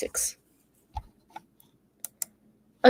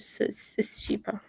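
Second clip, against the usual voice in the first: whispering; 11 dB quieter than usual. Real, not acted. Whispered aside to self.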